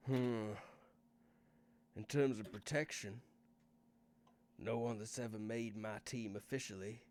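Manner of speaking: lightly voiced Northern English boss; a touch of a Northern English accent, unhurried. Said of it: "Garth's suddenly English and Northern".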